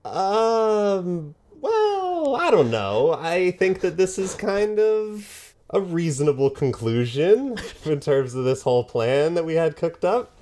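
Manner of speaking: high, awkward hedging voice; sheepish henchman. Acted. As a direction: squirm out of it nervously. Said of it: "Darren in the back like".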